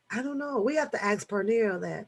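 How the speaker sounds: normal talking voice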